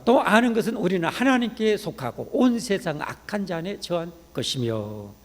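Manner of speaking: declaimed Bible verse; scripture reading. Acted. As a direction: proclaim the verse to the congregation, drawing out its close. Reads the verse aloud.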